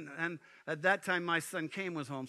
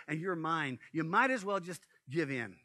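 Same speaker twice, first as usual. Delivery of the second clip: sly tempter; 2 semitones lower than usual. Acted. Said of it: "and he says".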